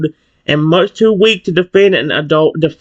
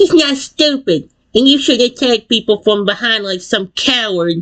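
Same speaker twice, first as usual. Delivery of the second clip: adorable, tiny-voiced, high little shout; 6 semitones higher than usual. Reading a story, a tiny Pokemon shielding the listener shouts in an adorable little voice. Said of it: "Tiny One shouts in an adorable little voice".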